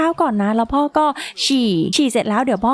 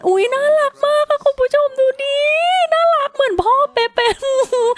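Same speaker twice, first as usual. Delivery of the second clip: gushing over cuteness; 12 semitones higher than usual. Real, not acted. Player shows viewers a cute child, gushing squeal. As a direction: squeal with delight at something adorable.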